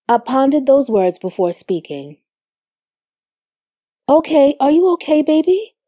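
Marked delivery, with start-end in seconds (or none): 4.1-5.7 higher-pitched, caring question; sincere. A narrator's reading. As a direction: check on your partner sincerely, voice lifted. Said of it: "slowly and sincerely".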